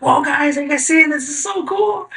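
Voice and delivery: freaking out over a floating eye drop, amazed; stoned amazement. Retold or imitated. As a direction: marvel like a kid at a magic trick. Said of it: "I'm, like, freaking out".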